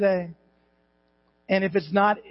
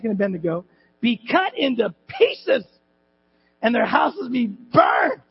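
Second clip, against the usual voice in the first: higher-pitched, forceful royal decree; aggressive decree; 4 semitones higher than usual. Acted. King decreeing against any who insult God, aggressive. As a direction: hit the threats hard, drawing out the last. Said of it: "now this part's a little aggressive".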